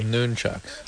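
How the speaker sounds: "Nunchucks" with a long oo, NOON-chucks; noon pronunciation. Shown as a demonstration. Co-host repeating the caller's correction, "Nunchucks" as NOON-chucks. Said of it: "What's the pronunciation, first of all?".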